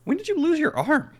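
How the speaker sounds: high put-on character voice; gruff shark voice. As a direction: ask it in the shark's voice. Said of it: "I go".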